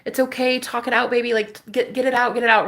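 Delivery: soothing friends. Retold or imitated. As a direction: coax her gently like caring friends. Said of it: "high priestesses in here just being like".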